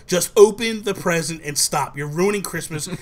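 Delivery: mildly exasperated retold mom; mock scolding with moderate force; mad mom. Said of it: "My mom gets so mad".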